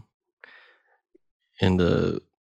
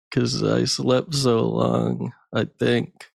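just-woke-up guy. Acted. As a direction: stumble through it half awake. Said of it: "it goes like this".

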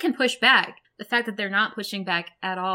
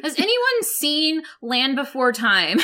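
slow, higher, laughing; laughing through words; 4 semitones higher, 4 dB louder, slower than usual. Real, not acted. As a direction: laugh out the question. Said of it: "repeated with laugh".

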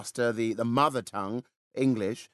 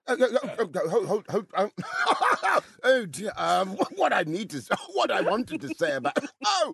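higher, stammering with giggles; flustered giggling; 7 semitones higher than usual. Pretend. Flustered host giggling at the awkward British chat-up. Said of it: "chat up by being awkwardly bumbling".

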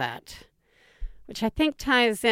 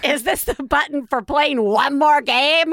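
put-on whining child voice; 4 semitones higher than usual. Child pushing parent's buttons.

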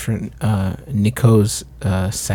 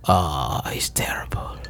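put-on French accent; 8 semitones lower, 5 dB quieter than usual. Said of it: "Where is this accent going?".

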